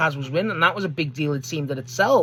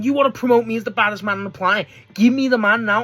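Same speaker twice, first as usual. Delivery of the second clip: imitated demand; 5 semitones higher, 4 dB louder, faster than usual. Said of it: "'cause he's giving Paul".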